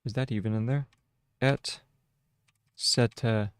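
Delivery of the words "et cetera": dictating. Shown as a demonstration. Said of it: "That's etch".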